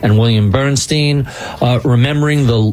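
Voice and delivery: measured podcast host credits read; radio sign-off. Acted. Host thanking the team and signing off, radio sign-off. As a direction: read the closing credits to listeners.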